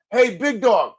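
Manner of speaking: mild imitated holler; retold yell. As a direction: call it out like a fan, at moderate volume. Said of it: "Somebody yells".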